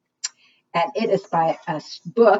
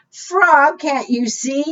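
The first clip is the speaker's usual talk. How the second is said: put-on much higher, fed-up girl; exasperated girl; 7 semitones higher, much slower than usual. Girl telling the frog the canoe is full, exasperated. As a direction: scold the frog gently.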